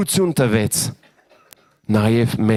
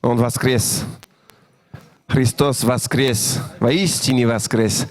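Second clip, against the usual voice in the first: Russian phrase; slower than usual. Shown as a demonstration. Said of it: "Mon accent est, est bon à part, en russe".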